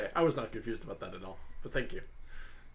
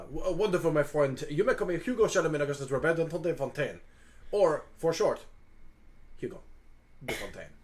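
put-on flourishing French-accented introduction; Hugo, courtly and gracious; 2 semitones higher than usual. Hugo introduces himself to the dragon, courtly French accent. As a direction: introduce yourself grandly, then offer sympathy.

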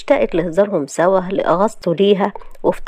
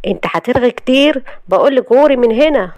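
understated anger, pushing her out of the room; telling her to get lost, lightly voiced anger; mild angry order; 5 semitones higher, 3 dB louder than usual. Husband ordering his wife's friend out, mildly angry. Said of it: "قال لها محمود بغضب".

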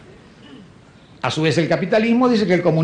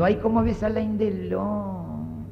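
swooning wife; 4 dB quieter than usual. Retold or imitated. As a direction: sigh it out like a lovestruck wife. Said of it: "sale del cine diciendo".

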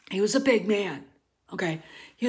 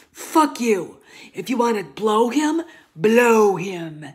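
a sudden harsh burst, louder at the end; angry outburst; 4 dB louder, slower than usual. Real, not acted. Vlogger ranting at critics on Instagram, harsh and angry. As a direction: spit it at the critics.

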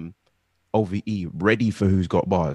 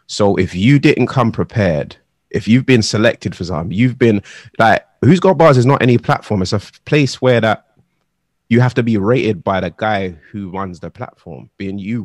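raised emphatic voice; louder, driving the point home; passionate rant; 8 dB louder than usual. Real, not acted. Passionate rant about artists.

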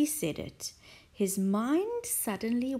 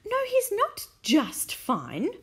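crying out; 9 semitones higher, 5 dB louder than usual. Acted. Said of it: "Missus Silver cried".

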